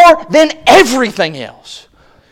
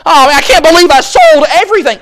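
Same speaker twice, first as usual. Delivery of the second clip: mock regret. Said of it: "these guys saying".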